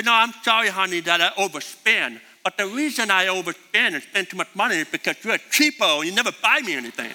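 light mocking spouse excuse, sped up at the end. Husband blaming his cheapo wife, mock excuse. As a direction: make the excuse sound petty. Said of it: "That's an excuse".

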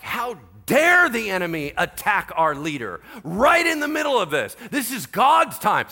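loud, high, indignant outburst; livid tirade. Retold or imitated. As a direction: reenact a livid rant, drawing out the outrage. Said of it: "I was livid".

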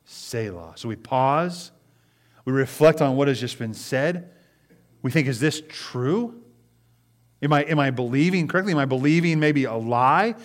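earnest sermon delivery; preaching. Acted. Pastor preaching to his church, earnest. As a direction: preach it to the congregation.

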